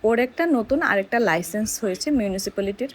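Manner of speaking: ordinary delivery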